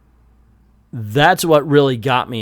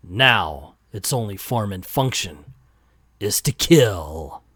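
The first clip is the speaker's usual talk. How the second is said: noir detective; 3 semitones lower than usual. Acted. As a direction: draw out the grim ending line. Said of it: "I'm gonna read it like a noir".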